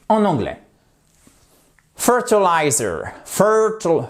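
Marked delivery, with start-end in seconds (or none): 1.9-3.1 "Fertilizer", slow, the weight on "FER"; stress on first syllable. Shown as a demonstration. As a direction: hit "FER" in "Fertilizer" and let the rest fall. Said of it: "accent tonique sur la première syllabe". (accent tonique sur "FER" de "Fertilizer")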